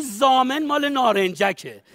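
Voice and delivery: slow, cocky comeback with a laugh; slow smug joke; cocky retort. Shown as a demonstration. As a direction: brush off the demand with swagger. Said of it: "میگی".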